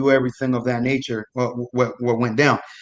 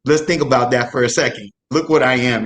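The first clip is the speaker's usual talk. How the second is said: low-key deadpan imitation of a serious man; very serious, retold; 3 semitones lower than usual. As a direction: quote him in dead earnest. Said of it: "he's very serious".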